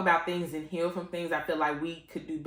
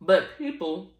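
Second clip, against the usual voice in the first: talking around ice cubes; ice in mouth; 4 dB louder than usual. Real, not acted. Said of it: "I got ice in my mouth".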